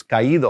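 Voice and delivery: "caído" with the stress on í. Shown as a demonstration. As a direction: hit the í in "caído". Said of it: "that stress goes on that I".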